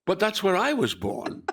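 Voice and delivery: acted-out astonished objection; baffled protest. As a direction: retell it as a puzzled, high protest. Actor retells his baffled protest.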